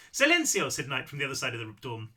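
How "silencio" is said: put-on high, loud call in a rough Spanish accent; second-try Spanish-accented shout, high and brisk; Spanish accent attempt. A narrator's reading. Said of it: "a Spanish accent".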